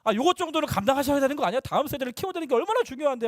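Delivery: mock protest, feeling let down; hurt complaint. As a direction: retell it as a wounded grumble. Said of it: "하면서 막, 막 서운한 거예요".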